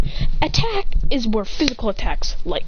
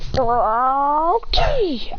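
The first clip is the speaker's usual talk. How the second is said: lightly voiced Pokemon cry; Froakie impression; 3 semitones higher than usual. Kid voicing Froakie's cry in a battle, a light creature voice. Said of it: "I do somewhat of a good Froakie impression".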